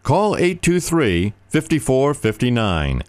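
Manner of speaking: slow, high, deliberate number; slow phone number. Acted. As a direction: spell out each digit slowly.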